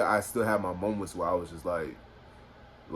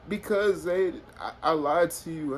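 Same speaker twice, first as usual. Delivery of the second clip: imitated tearful confession; 7 semitones higher than usual. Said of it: "she starts crying".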